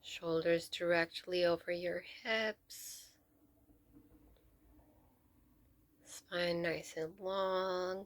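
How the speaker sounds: measured meditation guide with long pauses between phrases; guided meditation. Real, not acted. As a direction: lead them gently into stillness, leaving space to breathe.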